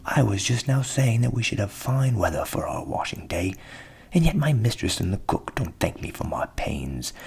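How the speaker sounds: hard-done-by rooster voice; aggrieved rooster. A narrator's reading. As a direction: grumble about the ungrateful mistress. Cock tells his plight.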